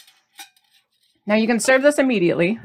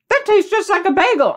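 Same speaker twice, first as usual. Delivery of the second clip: husband's delighted reaction; 11 semitones higher, 4 dB louder than usual. Retold or imitated. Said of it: "he was like".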